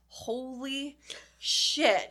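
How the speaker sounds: slow, drawn-out stunned holy shit. Retold or imitated. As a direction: let it sink in slowly, amazed. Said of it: "And I was like".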